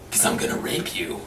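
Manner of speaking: low, soft, breathy menace from the biker; mock sinister whispered growl; growled biker threat. Biker answering Larry's question.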